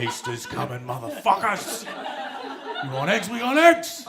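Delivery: mock hype building to a high, loud yell; pumped up. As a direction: start contained, then erupt like a rowdy promoter. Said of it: "Fucking pumped, right?".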